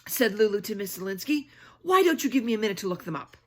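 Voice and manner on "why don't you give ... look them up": cheeky whisper. Acted. Lulu's cheeky retort.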